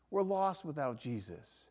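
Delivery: We're lost without Jesus repeated softly; hushed echo of the line before; quiet echo. Shown as a demonstration. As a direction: let the repeat fall soft. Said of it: "repeated softer".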